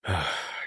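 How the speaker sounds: soft, heavy sigh; subdued exhale. A narrator's reading. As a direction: breathe out quietly before speaking. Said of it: "accompanied by a sigh".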